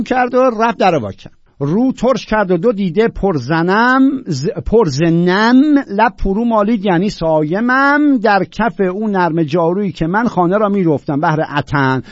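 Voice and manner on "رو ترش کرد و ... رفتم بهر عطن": emphatic verse declamation; poetry recitation. Acted. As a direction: declaim the lines with measured weight. Recites verse, brief gloss inside.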